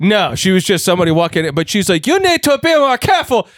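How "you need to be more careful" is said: very high, terrible fake Chinese accent. Retelling what a woman who walked in told them: bad chinese accent. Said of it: "that's like the worst Chinese accent".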